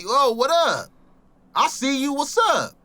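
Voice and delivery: high-pitched mock call to someone; retold call-out. Talking to himself in a hazy world, retold high call-out. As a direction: call it out high, each phrase falling off.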